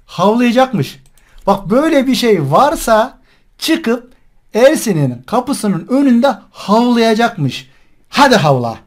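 slow, drawn-out jeering repetition; mocking. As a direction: throw the boast back, slowly and mockingly. Mocking the caller's promise to bark.

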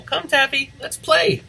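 high playful call; calling the cat. Acted. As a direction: coax the cat to come play.

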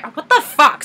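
retold fed-up outburst; frustrated. Daisy fed up with the ringing phone, mock frustrated. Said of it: "She's growing more and more frustrated".

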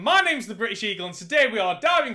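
hyped channel-intro voice; big welcome to viewers, co-host introduction; show intro. Acted. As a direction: announce the show with punchy energy.

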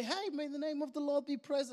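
light, chirpy and carefree; breezy mock praise. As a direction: toss it off like good news. Cheery praise after losing a job.

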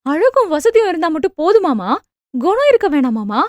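high, indignant questioning; a daughter's heated challenge; furious. Acted. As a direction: demand an answer in outrage. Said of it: "என்று ஆத்திரமாக கேட்டாள்".

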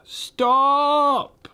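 high, loud witch command; shouted command. Acted. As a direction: bark a sudden stop order. Witch orders sledge stopped.

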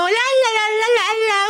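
lightly voiced singsong child; little child. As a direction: draw it out like a child la-la-ing. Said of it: "son de los niños".

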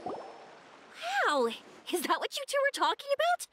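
high-pitched awestruck excitement; amazed. Acted. Traveler marvels at something huge they came to see, amazed. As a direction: marvel wide-eyed in a high, delighted voice.

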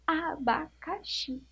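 Abacaxi said very slowly, a-ba-ca-xi each syllable stretched. Shown as a demonstration. Teacher sounding out abacaxi for pupils, very slowly. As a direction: sound out the whole word slowly. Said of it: "esse xi é o quê".

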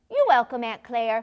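ordinary delivery

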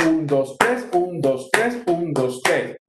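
"tres" lifted above "un, dos"; stress on TRES. Shown as a demonstration. Teacher counting pasillo with numbers, accent on each "tres". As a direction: count in threes, punching every "tres". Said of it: "dos es débil y el tres es fuerte".

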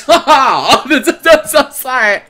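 high, helpless laughter through the words; laughing apology. Real, not acted. Streamer cracking up after an accent bit, laughing.

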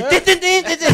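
high, loud jingle noises; high-pitched "tin" sound effect; sound-effect imitation. Shown as a demonstration. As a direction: mimic an alert jingle loudly. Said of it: "vamos a poner un sonido de".

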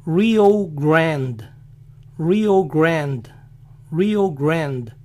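"Rio Grande" as "REE-oh GRAND"; American "Rio Grande", silent final E; English pronunciation. Shown as a demonstration. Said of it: "lo dicen así".

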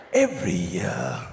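slow, low, hushed wildlife commentary; nature documentary narrator. Pretend. Documentary narrator describing the Amanzimtoti migration, slow and hushed. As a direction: narrate like a National Geographic film. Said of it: "there's even commentary in the background".

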